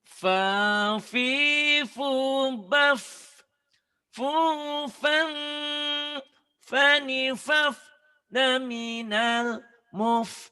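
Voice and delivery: chanted high and loud, full voice; loud version. Shown as a demonstration. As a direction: belt out each syllable high and strong. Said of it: "Ini kalau kencengnya kayak ini".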